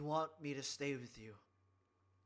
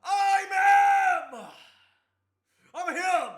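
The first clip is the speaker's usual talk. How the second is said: loud, much higher boasting yell; victory shout; 12 semitones higher, 24 dB louder, much slower than usual. Real, not acted. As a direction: roar it like a champion.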